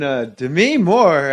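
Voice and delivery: mild Norm Macdonald imitation, slowed down; Norm impression, slow drawl. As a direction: ramble it like Norm, dragging the words. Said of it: "And I was doing".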